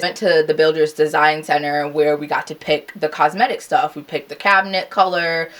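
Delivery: ordinary delivery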